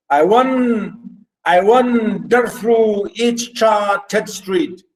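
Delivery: slow, measured scansion of the verse; syllable-by-syllable reading. Shown as a demonstration. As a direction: count out each syllable as you read. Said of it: "You say".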